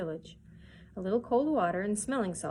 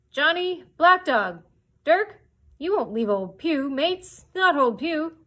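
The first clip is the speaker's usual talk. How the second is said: much higher, louder pleading cry; desperate calling; 8 semitones higher, 10 dB louder, slower than usual. Acted. Abandoned blind Pew begging his mates, desperate. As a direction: beg them not to leave you. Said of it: "calling out".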